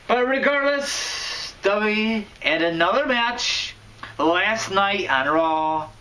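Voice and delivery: high-pitched, slow yell to the viewers. Real, not acted. Wrestling vlogger yelling the Raw news to his fans. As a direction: pitch it way up and drag it out. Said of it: "I don't know why I'm yelling".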